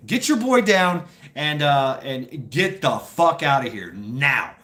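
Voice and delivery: loud start, slowing to punched-out final words; imitated stern order. MPs letting pranksters go, mock stern dismissal. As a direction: order them off, hitting each word.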